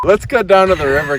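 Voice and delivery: laughing high voice; very high pitch. Pretend. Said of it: "Why is your voice so high?".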